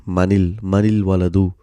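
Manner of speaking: manil with a short i linking n to l; sukoon turned kasra. Shown as a demonstration. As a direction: say manil waladu with n opened into -nil. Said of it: "the sukoon is turned into a kasra".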